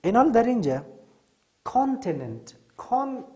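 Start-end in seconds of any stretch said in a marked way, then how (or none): 2.8-3.2 کان punched high as the stressed first syllable. Shown as a demonstration. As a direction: hit کان hard and high. (تاکید روی هجای کان)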